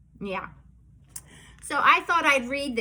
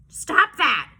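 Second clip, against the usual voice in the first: louder, half-joking stop; mock scolding; 3 semitones higher, 6 dB louder than usual. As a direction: scold the kids playfully. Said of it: "making me say these crazy things".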